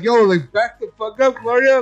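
lightly acted "get off me" protest; retold protest. Acting out rebuffing Gloria's advance.

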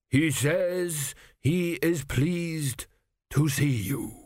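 slow, measured high priest; slow solemn priest. A narrator's reading. Priest relays the king's words, slow and solemn. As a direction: intone it like an ancient priest.

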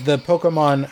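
Pokemon said "POH-ko-mon". Real, not acted. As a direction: middle of Pokemon as "ko". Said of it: "you just pronounced Pokemon different".

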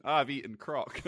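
lightly put-on Australian accent. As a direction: say it like a playful Australian. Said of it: "say in an Australian accent".

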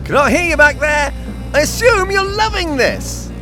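high fast yell. Acted. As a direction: yell back over the wind. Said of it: "He yelled".

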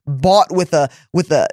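a touch of preaching fervor in the prayer; spoken prayer. Acted. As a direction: pray it out over the listeners. Leads a closing prayer.

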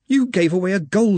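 high, urgent wizard voice; Ponder. A narrator's reading. Ponder lines up beside Ridcully, high reproach.

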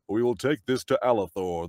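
grand mid-Atlantic fantasy-hero speech. Acted. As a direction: declaim it in stagey mid-Atlantic English. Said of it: "no one speaks that way sort of speech".

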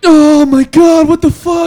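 high, slow, stunned shout; amazed shout. Retold or imitated. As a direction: gasp it out in disbelief. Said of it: "you're like".

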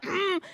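soft, savoring "mm"; appreciative hum. Shown as a demonstration. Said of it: "that's good preaching down to my bones".

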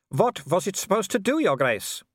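high taunting question; werewolf villain. Acted. Werewolf questions Vimes about the trap, high taunt. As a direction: start high, drop on the title.

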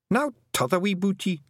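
high, rough Scottish little man murmuring in awe; a wee Scots Feegle marvelling at writing. A narrator's reading. Feegles watching Tiffany write, awed Scots murmur. Rob Anybody asks.

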